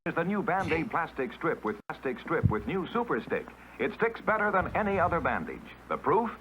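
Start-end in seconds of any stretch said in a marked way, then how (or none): none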